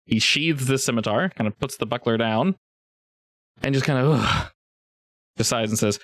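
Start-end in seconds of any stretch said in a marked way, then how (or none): 4.1-4.5 short acted grunt of resignation; weary ugh. GM voices the man's sigh.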